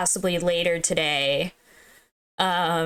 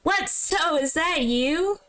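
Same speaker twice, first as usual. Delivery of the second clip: higher cartoon mouse voice, a bit slow; Mickey voice; 7 semitones higher, slower than usual. Sarah calls out to So in the dark, higher cartoon mouse voice. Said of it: "I'll give the Mickey voice".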